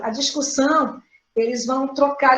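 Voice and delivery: usual speaking voice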